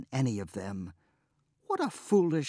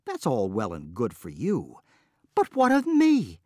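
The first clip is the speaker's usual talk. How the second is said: upset protest; 7 semitones higher, 4 dB louder than usual. Acted. Wife protesting her fate.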